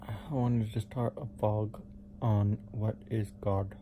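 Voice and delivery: numb mouth after root canal; numb from the dentist. Real, not acted. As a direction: talk through a numb mouth. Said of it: "why I'm talking so funny".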